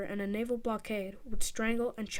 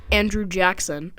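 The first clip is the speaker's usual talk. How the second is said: reluctant disgust; 7 dB louder, slower than usual. Pretend. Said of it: "God forgive me for saying this word".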